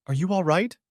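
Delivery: lightly voiced little girl, thin and trembling; a hint of a small trembling child; thin baby voice. A narrator's reading. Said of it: "thin, trembling baby voice".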